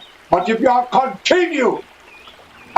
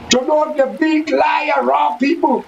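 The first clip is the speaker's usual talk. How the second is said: angry shout; 3 semitones higher than usual. Real, not acted. Ranting, shout heard.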